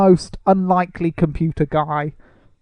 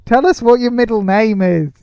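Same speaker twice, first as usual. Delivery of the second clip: higher-pitched mock plea; playful calling out; 5 semitones higher, 3 dB louder than usual. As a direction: call out as if the star could hear. Pretend appeal to the absent actor.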